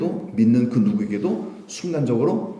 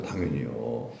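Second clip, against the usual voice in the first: ordinary delivery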